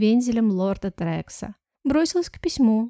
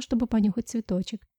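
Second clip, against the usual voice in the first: plain reading voice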